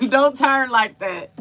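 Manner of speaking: words bubbling through real laughter; Don't turn like that said with a laugh. Real, not acted. Laughing at herself mid-story.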